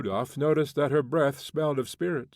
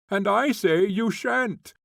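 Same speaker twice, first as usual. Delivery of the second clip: much higher, louder, slow and stubborn; defiant refusal; 10 semitones higher, 6 dB louder than usual. A narrator's reading. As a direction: refuse him flatly. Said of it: "and laughed aloud".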